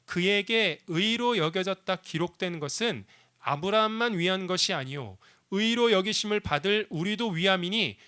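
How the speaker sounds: steady, measured reading of the verse; scripture reading. Shown as a demonstration. Pastor reading Romans to the church, measured. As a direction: read the verse out plainly to the congregation. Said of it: "말씀 이렇게 우리에게 들려주고 있습니다".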